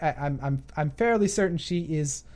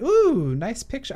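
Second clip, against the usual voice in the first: mock admiring ooh; 5 semitones higher, 3 dB louder, slower than usual. Vlogger admiring a streamer's profile picture, appreciative ooh. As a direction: coo at it, then drop the voice.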